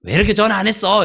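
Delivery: high, loud, fast scolding; mock angry scolding. Pastor acts out a friend scolding someone who never calls, mock angry. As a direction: snap at a friend for not calling. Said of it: "그렇게 화를 내요".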